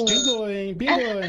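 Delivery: mock-startled call-out; playful surprise. Real, not acted. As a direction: react as if caught off guard, playfully. A sound interrupts the recording.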